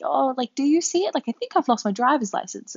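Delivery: high, rising panicky plea to the cashier; panicked asking. Retold or imitated. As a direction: retell the panic, voice jumping up. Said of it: "I'm starting to kind of panic".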